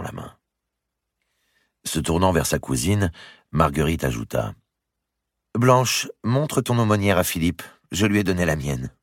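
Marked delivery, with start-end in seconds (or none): 5.5-8.9 lightly voiced queen, higher and bright-toned call; queen calling her cousin. Queen telling her cousin to show her purse, lightly calling.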